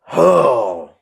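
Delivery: a sudden loud oh that cuts off the rant; loud startled oh. Real, not acted. Streamer breaks off his rant at chat with a loud startled oh. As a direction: blurt it out, caught off guard.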